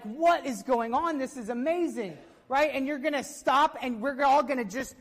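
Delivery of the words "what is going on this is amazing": excited congregation. Pretend. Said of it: "you're gonna be excited, like".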